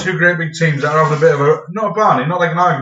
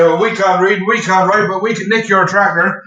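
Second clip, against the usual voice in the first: put-on slow, teasing Norfolk accent; 4 semitones higher, 5 dB louder than usual. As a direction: answer back in a broad Norfolk voice. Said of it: "And we used to say".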